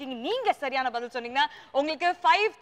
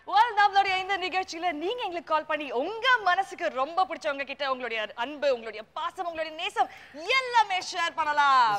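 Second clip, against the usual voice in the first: lilting FM host invitation; presenter's sing-song sales pitch; radio jockey patter. Acted. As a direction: coax listeners to call in, dipping then lifting.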